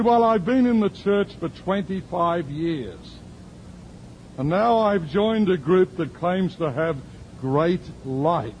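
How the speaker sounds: lightly voiced church lady, earnest; voicing the woman.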